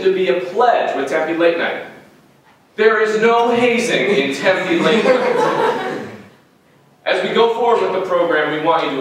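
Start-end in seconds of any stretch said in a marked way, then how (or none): 2.8-6.1 slow, raised-pitch insistence; emphatic disclaimer. Acted. Host insists to audience on no hazing, slow and emphatic. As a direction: drag out the denial, higher and firm. Repeats the disclaimer about pledge auditions.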